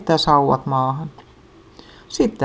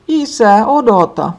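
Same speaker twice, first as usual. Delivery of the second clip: high, loud call after dad; shouting; 7 semitones higher, 7 dB louder than usual. A narrator's reading. Little sister shouting after dad, left behind. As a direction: yell for dad to wait. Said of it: "pikkusisko huutaa".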